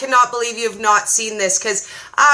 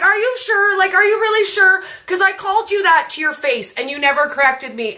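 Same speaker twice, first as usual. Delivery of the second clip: mock disbelief; 5 semitones higher than usual. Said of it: "I'm like".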